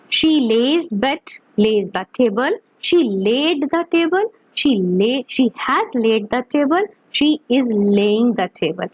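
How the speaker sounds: each example drawn out very slowly, word by word; slow dictation. Shown as a demonstration. Teacher reading examples to students, very slow and deliberate. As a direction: spell it out slowly for the class to copy. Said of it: "teacher dictating example sentences".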